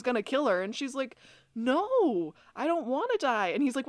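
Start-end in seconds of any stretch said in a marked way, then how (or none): 1.6-3.5 Caroline's plea hammed up high and loud; mock pleading. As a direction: beg in a high put-on voice.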